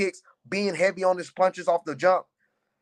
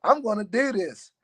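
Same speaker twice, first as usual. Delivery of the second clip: higher, louder burst of retold hype; retold excitement; 4 semitones higher, 4 dB louder than usual. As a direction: relive the rush of deciding to fight. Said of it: "And I was like".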